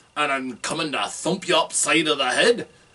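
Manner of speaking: bad fake Scottish accent, dwarf style. A role-player shows how they voiced their dwarf character: Corbrecht's bad Scottish accent. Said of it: "I had the bad Scottish accent".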